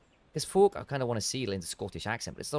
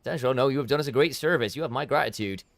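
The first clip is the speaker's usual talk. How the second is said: northern game character; 4 dB louder than usual. Acted.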